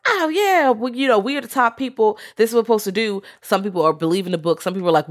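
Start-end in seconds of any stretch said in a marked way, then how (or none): 0.0-3.2 mock haughty Lilith. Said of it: "Lilith's like".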